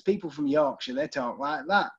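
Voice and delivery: put-on Yorkshire accent. Shown as a demonstration. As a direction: slip into a Yorkshire accent for a quick demonstration. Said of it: "when I do a Yorkshire accent".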